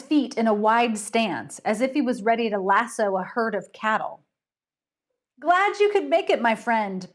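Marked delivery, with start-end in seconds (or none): 5.4-7.1 forced welcome, teeth clenched; through clenched teeth. Acted. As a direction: grit your teeth and fake the greeting. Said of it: "said through clenched teeth".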